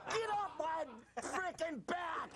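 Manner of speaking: slow yell breaking into laughter; laughing yell. Acted. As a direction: shout it while cracking up. Mock rant, laughing.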